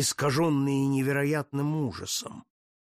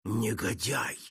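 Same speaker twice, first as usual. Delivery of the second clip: furious outburst; slower than usual. Acted. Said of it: "бешено вырвалось у монахов".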